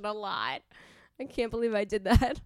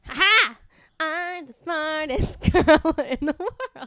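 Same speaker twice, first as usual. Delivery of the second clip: gloating; 6 semitones higher, 10 dB louder, slower than usual. Acted. Gloating after a guess.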